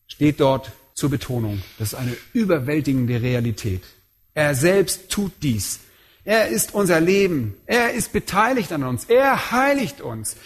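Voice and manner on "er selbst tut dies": slow, "selbst" weighted with a falling tune; stress on selbst. Shown as a demonstration. Preacher drives home that God does it himself, stress on selbst. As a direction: press "selbst" down slowly.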